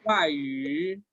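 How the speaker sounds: "guay" cayendo en cuarto tono, seguido de tercer tono; pronunciación correcta. Shown as a demonstration. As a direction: modela "guay" con los tonos chinos bien marcados. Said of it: "La pronunciación correcta de esta palabra". ("guay" como demostración de tonos chinos)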